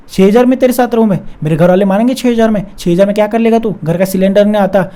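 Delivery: lightly voiced girlfriend, sneering about money; mock scolding. Girlfriend scolds him over salary. (हल्की नक़ल में ताने मारती गर्लफ्रेंड)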